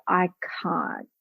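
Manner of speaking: soft, small, mock-helpless voice; mock client refusal. Client refusing the coach, softly and helplessly. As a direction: shrink back and whimper the refusal. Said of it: "it would just be like".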